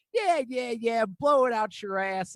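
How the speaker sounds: high mock shout, slowing at the end; retold angry dismissal. Shopper telling the other off, imitated shouting. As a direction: shout it off, drawing out the insult.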